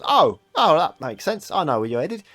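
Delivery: high, loud lantern-bearer lad; cheeky little guide with an old man's accent; young boy, oddly old-mannish. Acted. Lantern boy offering a lost stranger directions, high young urchin voice. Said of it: "young boy with a weirdly old man accent".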